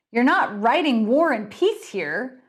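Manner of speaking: impatient sneer at the pourer; snarling. Acted. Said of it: "Bernie snarled".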